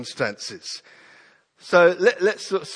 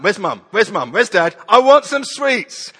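put-on louder, high whining kid calling for mum; child searching, whining; 5 semitones higher, 7 dB louder than usual. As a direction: search the house like a whiny child. Child voiced in story.

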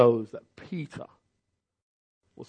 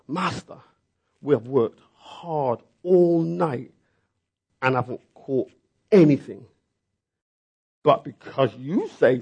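grumbling Simon; 4 dB louder than usual. Acted. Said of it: "Simon answered".

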